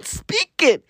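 whisper. Real, not acted. Punchline of rant.

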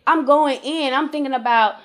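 exasperated complaint to God, rising in pitch; angry questioning. Retold or imitated. Mother of four retelling her complaint to God, frustrated. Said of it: "I'm getting angry".

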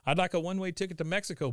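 a hint of a kid ordering at a counter; Bobby. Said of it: "and he goes".

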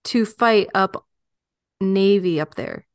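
lightly put-on Western accent, halting; L'Amour's accent. Trying to get back into the memoir's voice, light accent. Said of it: "you pop me out of it".

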